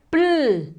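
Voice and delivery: "pl" set apart, with the l held; isolated consonant sound. Shown as a demonstration. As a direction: sound out "pl" before adding the vowel. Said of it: "el sonido es". ("pl" como sonido aislado, con la l sostenida)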